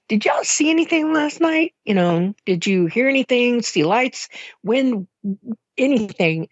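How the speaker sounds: high, urgent asking, pitched well up; urgent questioning. Retold or imitated. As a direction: press mom for an answer, voice lifted high. Quoting herself asking mom about lights.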